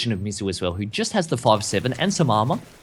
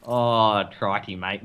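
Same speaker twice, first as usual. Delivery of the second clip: put-on Ocker Australian accent; 2 semitones lower, much slower than usual. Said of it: "Australians don't say crikey".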